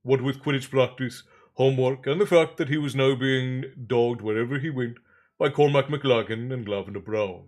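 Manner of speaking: measured audiobook-style reading; story narration. A narrator's reading. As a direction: read the story aloud with deliberate phrasing. Reads novel aloud.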